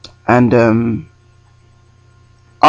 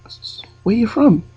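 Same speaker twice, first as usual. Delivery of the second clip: high, slow stammered question in a put-on accent; European accent; 10 semitones higher than usual. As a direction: drag out the question in a mock Eastern European accent. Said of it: "try and do an accent".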